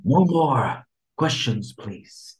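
quoted line. Retold or imitated. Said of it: "What's that from?".

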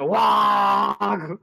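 loud mock orc bellow "Wah!"; orc war cry. Co-host jokingly imitating a Warhammer 40K orc charge, a loud mock bellow. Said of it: "forty K orcs, something like".

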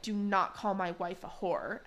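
mild, measured mock indignation; slow, understated retold anger. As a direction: spell it out slowly, as an offended husband. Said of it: "Tom gets mad".

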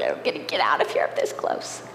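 hushed whisper under her breath. Retold or imitated. Muttering to herself at the DMV counter, whispered.

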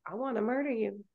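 contained mock rage; retold anger. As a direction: quietly imitate being furious with a boyfriend. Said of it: "got so mad".

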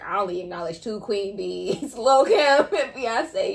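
slow and laughing through the names; laughing quote. Retold or imitated. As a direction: crack up while reading the post. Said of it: "it was like".

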